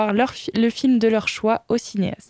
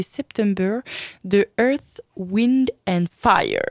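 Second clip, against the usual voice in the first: French-accented English; 3 semitones lower, slower than usual. Real, not acted. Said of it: "avec mon magnifique accent anglais".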